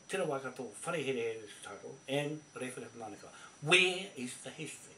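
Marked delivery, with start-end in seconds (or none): 3.6-4.9 angry shout. Real, not acted. Angry rant at Ratana rivals.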